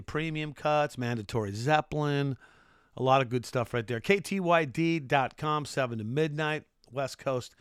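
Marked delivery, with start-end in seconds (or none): 4.0-5.6 slow, lifted radio announcer delivery. Shown as a demonstration. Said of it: "That's my radio voice right there". 5.6-7.5 radio voice. Shown as a demonstration. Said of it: "That's my radio voice right there".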